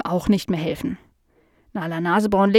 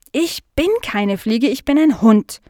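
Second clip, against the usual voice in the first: higher, emphatic protest; 3 semitones higher, 4 dB louder than usual. Acted. Dog mistaken for a fly, protesting emphatically. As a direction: insist firmly, building louder. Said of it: "protestierte Nala".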